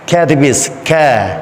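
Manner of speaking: KA light, with a flat "æ" vowel; thin letter. Shown as a demonstration. Teacher drilling the alphabet, thin Ka. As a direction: say Ka with a smiling mouth.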